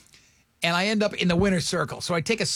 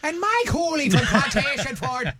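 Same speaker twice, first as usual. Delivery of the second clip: put-on slow Irish-accented "Mike Hooley from Plantation Ford", pitched higher; mock Irish accent; 7 semitones higher than usual. Host joking he'd read sponsors in an Irish accent. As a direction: lilt it like an Irish radio ad. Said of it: "then I'll be like".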